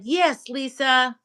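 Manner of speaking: mock slow answer to his wife; imitating Brian. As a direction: stretch it out like a teasing husband. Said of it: "Brian said".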